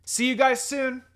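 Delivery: loud, high farewell yell. Acted. Minako waving goodbye to her friends, yelling. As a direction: call it out across the distance. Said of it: "I yelled".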